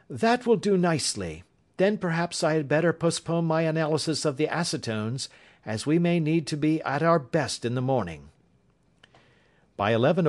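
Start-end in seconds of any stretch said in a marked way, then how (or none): 0.1-8.3 lightly raised, confident detective voice; Holmes, calm and assured. A narrator's reading. Holmes decides to go.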